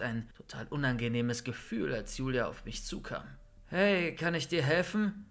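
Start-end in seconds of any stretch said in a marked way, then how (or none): 3.7-5.3 friendly. A narrator's reading. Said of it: "fragte ich freundlich".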